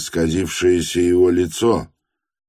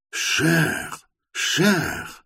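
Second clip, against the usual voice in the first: gasping for breath; 11 semitones higher, 4 dB quieter than usual. Acted. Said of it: "задыхался он".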